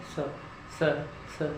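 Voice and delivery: स as a soft steady hiss, tongue behind the teeth; hissing s demo. Shown as a demonstration. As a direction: let the स hiss out on its own. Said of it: "वो कैसे?". (स की हल्की सी सीटी जैसी आवाज़)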